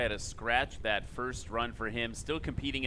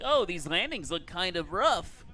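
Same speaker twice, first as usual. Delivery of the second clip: internet troll; 4 semitones higher than usual. Retold or imitated. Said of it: "that's the internet troll voice".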